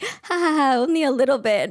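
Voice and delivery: high mock laughing admission; imitated housekeeper's laugh. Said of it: "she's like".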